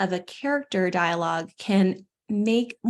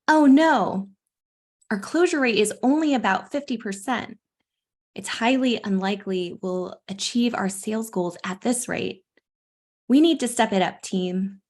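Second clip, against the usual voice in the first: bad acting. Shown as a demonstration. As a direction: ham up the team-leader alarm. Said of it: "excuse my acting skills".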